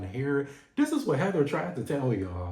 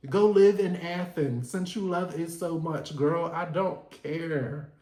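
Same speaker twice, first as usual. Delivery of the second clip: mock teen snapping; 6 semitones higher, 4 dB louder than usual. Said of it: "Elektra was like".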